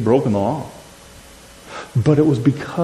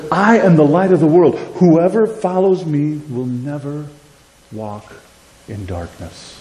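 Savior's voice. Acted. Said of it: "The voice of our Savior says".

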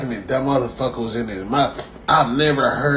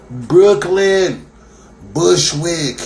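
loud, higher rallying call; hype call; 5 semitones higher, 6 dB louder, much slower than usual. Real, not acted. Rallying Brooklyn and Bushwick to chant together, loud. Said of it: "all together now".

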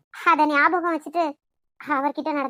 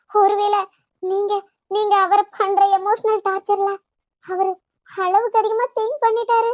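upset pleading; 3 semitones higher, 5 dB louder than usual. Acted. Pleading emotionally with grandfather.

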